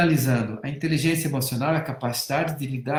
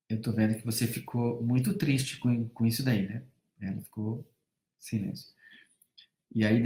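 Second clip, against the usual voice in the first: tender father; 4 semitones lower than usual. Retold or imitated. Father comforting sad daughter quietly.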